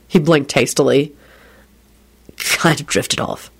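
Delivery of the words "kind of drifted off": slow, whispery murmur; quiet apology. A narrator's reading. Man apologising for drifting off, quiet and slow. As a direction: drift back slowly, half whispered. Apologising after lost in sad thought.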